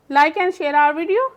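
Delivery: slow, careful closing request; slow outro. Shown as a demonstration. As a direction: ask the viewers slowly to subscribe. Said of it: "channel outro". (धीरे से subscribe करने की गुज़ारिश)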